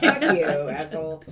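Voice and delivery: laughing mock insult. Real, not acted. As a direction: laugh through the playful jab.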